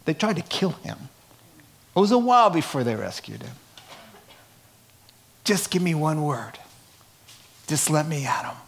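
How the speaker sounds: lightly played pleading apostle; begging for the mic, half-joking; a hint of a bloodied man begging to speak; mildly voiced eager Paul. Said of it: "He says".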